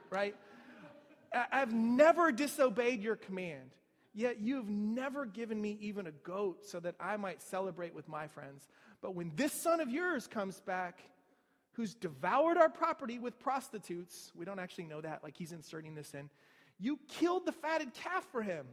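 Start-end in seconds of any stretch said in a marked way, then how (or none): 1.3-14.3 louder resentful complaint; indignant. Retold or imitated. Older son confronting his father, loud and indignant. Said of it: "the older brother is indignant". 16.8-18.7 indignant. Retold or imitated. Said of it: "the older brother is indignant".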